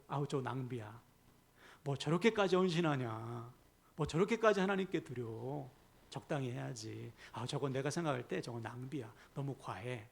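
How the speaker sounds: lightly acted dismissive grumble; muttered-style disapproval, lightly put on; belittling. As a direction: run down someone's devotion in mild mock disdain. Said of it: "깎아내리는 거예요".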